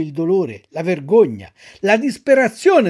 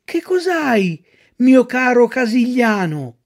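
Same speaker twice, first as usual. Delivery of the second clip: high, solicitous little marmot voice; a small creature fussing kindly over a friend; caring marmot; 4 semitones higher, 4 dB louder than usual. Acted. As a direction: ask with gentle concern, pitched up. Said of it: "gli domandò premurosamente".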